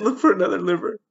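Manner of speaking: very high, loud, anguished begging; desperate plea. Real, not acted. Desperate plea for child's life.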